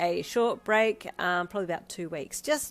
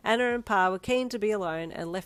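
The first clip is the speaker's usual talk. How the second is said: story narration. Acted.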